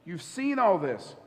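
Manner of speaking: slow, leaning on all in you've seen all this; slowed repeat. Retold or imitated. Jesus chiding the disciples, slowed and weighted. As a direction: draw it out for weight. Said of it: "Jesus is like".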